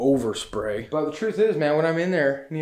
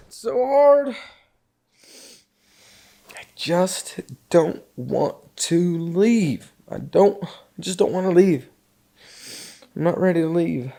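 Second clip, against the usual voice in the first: breaking into tears, higher and louder; crying; 3 semitones higher, 4 dB louder than usual. Real, not acted. Leaving the cabin for good, crying. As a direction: sob out the words. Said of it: "getting so emotional".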